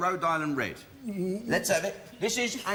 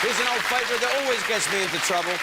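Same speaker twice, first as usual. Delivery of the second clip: quick, upbeat presenter's build-up to a name; show host introduction. Acted. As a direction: announce the next act to the audience. Host introduces the next act.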